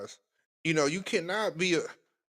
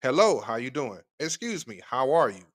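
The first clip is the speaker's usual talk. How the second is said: smooth greeting demo; 3 semitones lower than usual. Shown as a demonstration. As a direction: show him how easy the greeting is. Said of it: "simple way to approach a woman, say".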